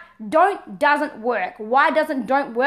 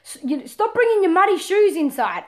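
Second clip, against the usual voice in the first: nagging parent; 3 semitones higher than usual. Retold or imitated. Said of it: "every time you tell your child".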